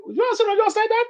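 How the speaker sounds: high, disbelieving "you said that?"; retelling his own astonished reply; incredulous quote. Retold or imitated. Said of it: "I was like".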